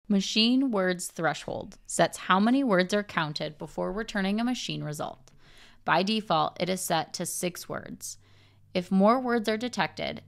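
normal talking voice

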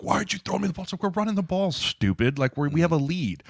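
high-pitched mock griping; acted complaint. Player griping about not getting the ball, acted complaint.

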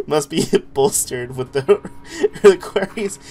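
put-on slow cutesy baby talk broken by giggles; uwu voice. Streamer reading a game note, giggly uwu voice. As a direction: struggle through it in a mock uwu voice. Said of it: "I can't talk like that".

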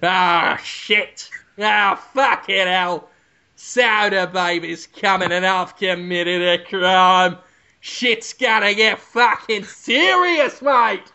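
slow, drawn-out villain fretting; villain's dread, slow. Retold or imitated. Villain dreading the detective baby's arrival, slow. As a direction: let the dread sink in slowly. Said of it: "This is Hugo Weaving playing a villain".

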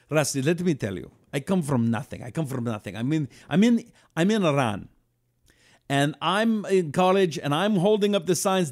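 light Iranian accent, imitating an older friend; Persian accent. Casino owner recalling his youth in a mild Persian accent. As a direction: Iranian accent retold with affection. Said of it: "I went to the accent for a minute".

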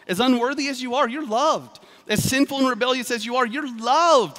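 fervent sermon build; rising fervour. Real, not acted. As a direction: lift each line like a proclamation. Preacher building to emphasis.

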